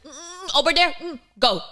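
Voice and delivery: put-on high Filipino-accented mum pointing; Filipino mum shooing. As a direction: shoo her out like a Filipino mum. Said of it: "all Filipinos do that".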